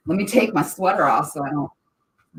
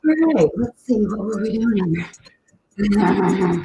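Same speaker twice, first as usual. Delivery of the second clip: excited; 6 semitones higher, 7 dB louder, much slower than usual. Real, not acted. Loud drawn out.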